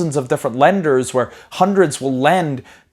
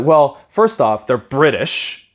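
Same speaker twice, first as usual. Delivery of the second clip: slow scornful dad; slower than usual. Retold or imitated. Dad warns his son about the British, slow and scornful. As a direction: hand down the verdict slowly like a suspicious father. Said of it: "He's like".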